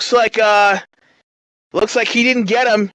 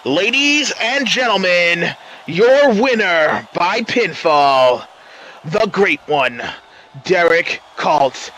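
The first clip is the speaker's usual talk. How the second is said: ring announcer; slower than usual. Acted. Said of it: "take it away, Daphne".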